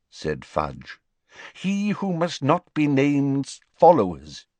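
high, urgent minister pleading his case; anxious wizard official, pitched high; Fudge's voice. Acted. Fudge tells the Prime Minister they're at war, high and urgent.

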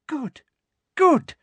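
high-pitched satisfied purr, then sharper; gloating approval. A narrator's reading. Umbridge gloats over captives.

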